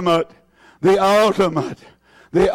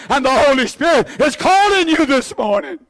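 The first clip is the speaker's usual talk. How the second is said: shouting call; 5 semitones higher than usual. Real, not acted. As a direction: ring it out to the room. Preacher calling congregation, shout.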